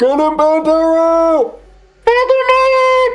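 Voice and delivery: very high, very loud, shrill, rising crowd shout. Voicing shouts from a crowd cheering on a fighter: crowd shouting. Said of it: "along with the occasional shouts".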